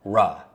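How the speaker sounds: "R" with a vowel on the end, ruh. Shown as a demonstration. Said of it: "Just put an A at the end".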